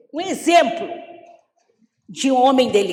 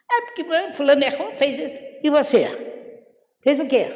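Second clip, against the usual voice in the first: mock complaint then challenge; 4 semitones higher, faster than usual. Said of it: "Eu falo assim".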